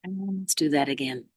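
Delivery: measured meditation guide with long pauses; unhurried mindfulness instruction; guided meditation. Real, not acted. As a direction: ease them gently into posture and breath. Leads a meditation.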